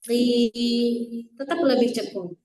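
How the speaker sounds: Qi with the middle of the tongue hollowed. Shown as a demonstration. Teacher showing the correct hollow-tongue Qi. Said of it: "tengah lidahnya harus lebih cekung".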